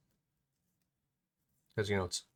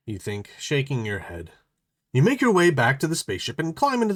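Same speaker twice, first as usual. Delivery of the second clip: lightly voiced narrator read; story narration; 3 semitones higher than usual. A narrator's reading. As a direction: read the instructions aloud to the players. Reads game book instructions.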